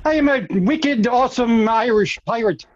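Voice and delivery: light Irish lilt on a pirate; mock Irish pirate; Irish pirate accent. Guide claims to be Irish pirate, light Irish lilt. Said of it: "You've been an Irish pirate".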